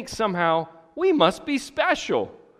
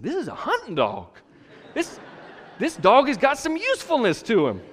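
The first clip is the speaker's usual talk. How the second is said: laughing delight; 9 semitones higher than usual. Retold or imitated. Delighted the dog is useful.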